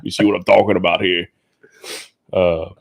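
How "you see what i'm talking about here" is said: lightly voiced Cajun coach; mild coach impression; Coach Ogeron impression. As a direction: talk it like a Louisiana coach. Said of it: "Coach Ogeron on the P B J podcast".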